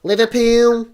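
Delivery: "Liverpool" in a put-on Spanish accent; mock Spanish accent. Wondering how Spanish commentators say Liverpool, mock Spanish accent. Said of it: "I wonder if they do that in Spain".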